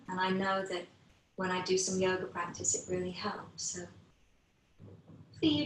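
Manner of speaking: guided meditation. Acted. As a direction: ease the class into noticing their breath, gently. Teacher leads guided breathing meditation.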